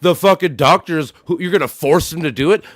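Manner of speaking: mocking. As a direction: parrot the argument back with scorn. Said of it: "I throw it right back in your fucking face and go".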